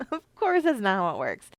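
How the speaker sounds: amused, laughing it off. Real, not acted. Laughs into the restated answer.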